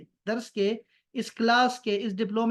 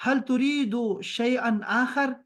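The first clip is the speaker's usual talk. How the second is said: slow Arabic reading; 2 semitones higher, slower than usual. Shown as a demonstration. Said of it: "اس کو بھی الگ نکال کے".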